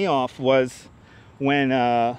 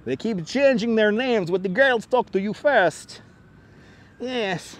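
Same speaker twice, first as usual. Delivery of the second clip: put-on Russian accent; 4 semitones higher than usual. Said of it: "Russian accent".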